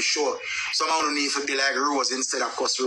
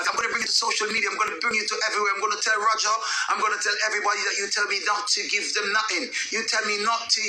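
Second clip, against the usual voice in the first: fast, higher put-on Yankee-British accent; imitating the angry woman in a fake foreign accent; mock foreign accent; 4 semitones higher than usual. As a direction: rattle off her threats in a fake American accent. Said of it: "she go down in the Yankee and the British and the every accent".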